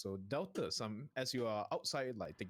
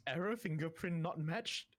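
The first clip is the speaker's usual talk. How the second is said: robotic readout; 7 semitones higher than usual. Acted. GM reads error message.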